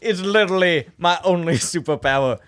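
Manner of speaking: put-on Southern accent. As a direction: play up a mock Southern accent. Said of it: "my Southern accent is infectious".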